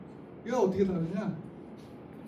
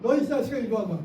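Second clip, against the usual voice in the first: mock teacher yell. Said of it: "그랬다는 거죠".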